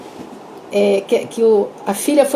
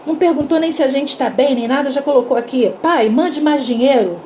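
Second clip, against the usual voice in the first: mildly indignant, pitched up at the start; mild outburst. Retold or imitated. Father grumbling over daughter's telegram, mildly indignant. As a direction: retell an annoyed father's complaint. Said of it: "o pai estourou, falou assim".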